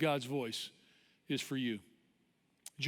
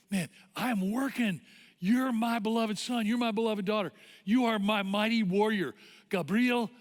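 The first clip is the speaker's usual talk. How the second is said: rising, emphatic affirmation; Jesus; 4 semitones higher, 3 dB louder than usual. Acted. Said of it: "Jesus comes and looks at you and goes".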